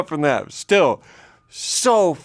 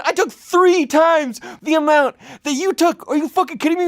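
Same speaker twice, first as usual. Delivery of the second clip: much higher, strained panicked squeal; panicked shriek. Retold or imitated. Answering the roommate about the cake, high panicked shriek. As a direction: squeak it out in full mock panic.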